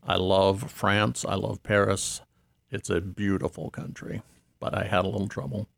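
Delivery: put-on Santa with a light French accent. Santa tells the radio host of Paris in a light French accent. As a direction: play Père Noël with a hint of French. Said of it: "Was it your French accent?".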